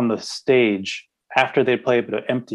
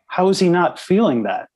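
surprised disbelief; 6 semitones higher, 3 dB louder than usual. Retold or imitated. Reacting to Anthony not flinching.

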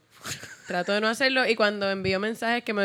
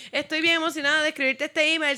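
gushing email; 6 semitones higher, 3 dB louder than usual. Retold or imitated. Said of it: "Como escribo emails".

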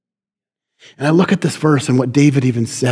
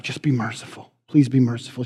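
soft, slightly lower begging for mercy; gentle plea; 3 semitones lower, 7 dB quieter than usual. Acted. A woman begging the king to spare her husband, gentle plea. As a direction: plead softly and gracefully. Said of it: "She had so much grace".

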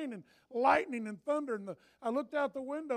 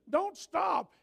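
higher and louder shout; shouted exhortation; 7 semitones higher, 6 dB louder than usual. Real, not acted. Pastor shouts at the church not to quit praying. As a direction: cry it out to the flock.

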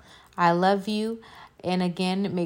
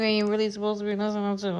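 hushed, softer aside; whisper; 6 dB quieter, faster than usual. Real, not acted. Podcaster confessing to listeners, sudden whisper. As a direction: drop to a secret whisper. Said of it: "I had to whisper that real quick".

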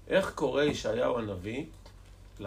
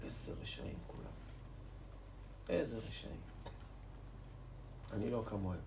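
much softer, imitating private indignation; inward protest; 11 dB quieter than usual. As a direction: murmur it as a thought held in the heart. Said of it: "והיה לו מחאה חריפה בלב".

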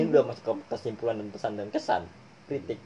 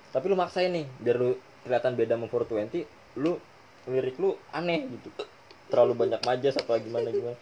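hiccupping between words; talking through hiccups. Real, not acted. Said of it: "gue tegukan ini".

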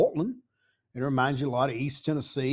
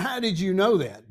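mock-innocent question, a touch higher; playing dumb, sure it's the accent; facetious; 5 semitones higher than usual. Tourist teasing the shop owner, facetious.

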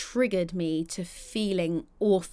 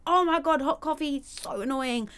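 exasperated outburst; 7 semitones higher than usual. Retold or imitated. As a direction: squeal it like a small disaster. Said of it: "So if you say".

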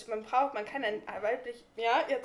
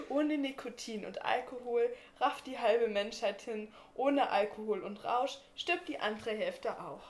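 slow, hammy poetic recital; poetic theatrical voice. Shown as a demonstration. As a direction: recite it like a stage poet. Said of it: "Ganz so schön in deiner poetischen Stimme".

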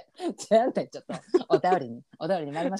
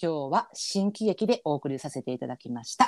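mock narrator. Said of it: "いきなり勝手にそういうのを始めるの".

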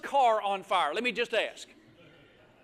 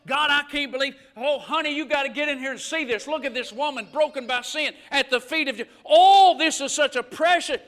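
gushing fake Pharisee; 6 dB louder than usual. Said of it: "no, he didn't say any of that".

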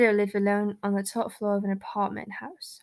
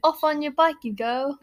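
British slang, pitched up in mock accent; put-on British accent; 4 semitones higher, 3 dB louder than usual. Joking dismissal between friends, put-on British accent. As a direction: send them off like a Brit.

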